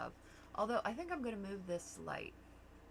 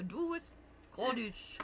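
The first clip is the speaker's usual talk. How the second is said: slow, hesitant stab at Scottish, slightly raised; badly faked Scottish, drawn out; attempted Scottish accent; 4 semitones higher, much slower than usual. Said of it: "I don't know if I could do Scottish".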